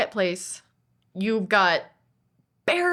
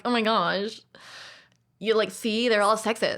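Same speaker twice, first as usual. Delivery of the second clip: feminist voice. Retold or imitated. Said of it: "Is that your feminist voice?".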